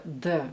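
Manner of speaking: put-on "the" with a Russian-accented consonant; very Russian sound. Coach copying the actress for viewers, Russian-accented pronunciation. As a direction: say "the" as a Russian speaker would. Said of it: "it's very Russian".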